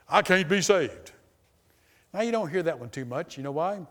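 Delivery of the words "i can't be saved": louder, slow, emphatic quote of a despairing man. Retold or imitated. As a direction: lean on it like a hopeless man. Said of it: "a guy did tell me this".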